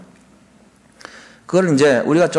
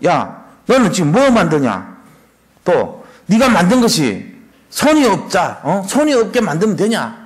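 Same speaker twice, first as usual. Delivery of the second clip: mock quarrel; 2 semitones higher than usual. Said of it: "따지면 안 된다는 거예요".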